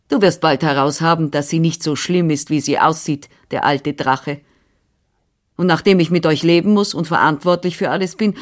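a lightly voiced bustling older woman; brisk, busy housekeeper voice, only lightly put on; Frau Anna, brisk nurse. Nurse answering the father, lightly voiced and brisk.

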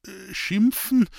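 high, slow, faltering stammer. Acted. Hans-Peter stammering to the priest, intimidated by holy names. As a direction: stumble over it, intimidated. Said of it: "stotterte Hans-Peter".

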